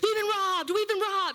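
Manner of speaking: play-acted screaming at a very high pitch. Telling listeners about a phone call from him, imitating someone screaming. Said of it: "I wish you guys could hear his voice".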